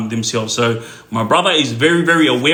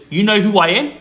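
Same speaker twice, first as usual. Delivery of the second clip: old lady's challenge, lightly voiced and higher; retold haughty challenge; 5 semitones higher than usual. Old lady challenging my brother, retold haughty question. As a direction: quote her challenge as the story's punchline. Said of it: "guess what this old lady said".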